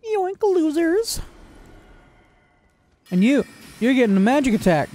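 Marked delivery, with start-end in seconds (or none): 0.0-1.2 high, slow mocking yoink; pitched-up smug gloat; gleeful taunt. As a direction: draw it out, gloating at the losers.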